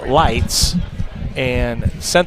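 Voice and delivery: loud. Real, not acted. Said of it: "now you guys asked for the volume".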